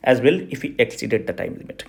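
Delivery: slow, spaced out for copying; slow dictation. Shown as a demonstration. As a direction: dictate the quote for the conclusion. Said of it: "इसको चिपका देना".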